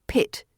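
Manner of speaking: "Pit." with a short pure I sound; short crisp pit. Shown as a demonstration. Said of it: "Keep it short, crisp, and pure".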